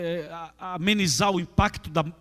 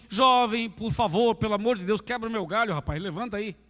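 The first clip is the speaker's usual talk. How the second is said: mock pleading; 3 semitones higher than usual. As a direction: beg the dead man half-jokingly like a weak request. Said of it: "Jesus não, não falou assim". (súplica fingida, aguda e cada vez mais baixa)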